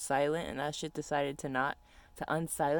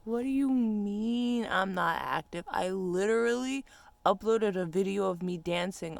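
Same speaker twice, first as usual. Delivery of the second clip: high, slow, offended comeback; indignant; 3 semitones higher, 4 dB louder, slower than usual. Retold or imitated. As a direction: act offended, drawn out. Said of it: "I'm like".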